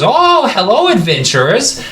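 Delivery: high, excitable goblin peddler; little goblin. Acted. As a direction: pipe up high like a goblin hailing customers. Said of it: "there's a little goblin sitting".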